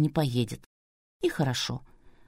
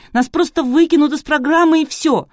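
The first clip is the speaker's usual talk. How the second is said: high, loud lament; 10 semitones higher, 6 dB louder than usual. A narrator's reading. Кристина laments to Artur about chickenpox, loud wail. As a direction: keep wailing, despairing. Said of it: "продолжала причитать Кристина".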